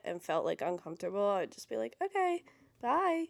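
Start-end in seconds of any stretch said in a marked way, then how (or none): 2.0-3.2 curt brush-off. Retold or imitated. Brushing off a bad date.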